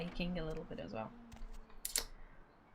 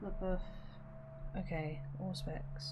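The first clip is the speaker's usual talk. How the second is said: whispering; 6 dB quieter than usual. Real, not acted. Muttering while checking a menu.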